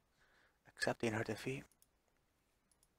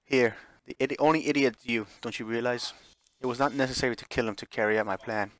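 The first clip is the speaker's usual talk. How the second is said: louder, gloating pride; proud, confident; 5 dB louder than usual. Acted. Lillian boasting to Ashley, proud and loud. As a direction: crow over your victory. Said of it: "overflowing with pride and confidence".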